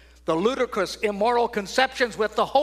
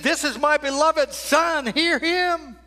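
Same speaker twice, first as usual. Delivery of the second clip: voice of God; 7 semitones higher, 4 dB louder, slower than usual. Acted. God speaks from heaven.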